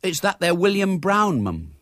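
put-on high-pitched servant girl; high, simple servant voice; little maid. A narrator's reading. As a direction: announce the caller as a young maid. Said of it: "the little maid entered".

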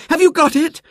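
put-on high eager girl; a poor girl hoping; little girl voice. A narrator's reading.

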